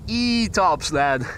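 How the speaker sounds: put-on light Yorkshire accent; Yorkshire accent, said with a grin. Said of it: "Suggest you pronounce that in Yorkshire accent".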